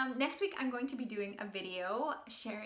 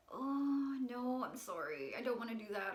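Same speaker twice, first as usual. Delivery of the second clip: guilt-ridden refusal; 3 dB quieter than usual. Acted. Coach mimicking a people who refuse with guilt, apologetic. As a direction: back out guiltily, losing volume as you go. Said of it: "if we go in with our guilt and we say".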